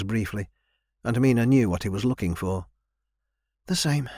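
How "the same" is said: short and cool reply; curt. Acted. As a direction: cut him off flatly. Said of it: "she answered curtly".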